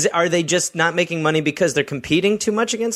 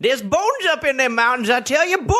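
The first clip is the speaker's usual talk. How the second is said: put-on old prospector; 10 semitones higher than usual. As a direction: rave about bones like a prospector. Prospector voice continues.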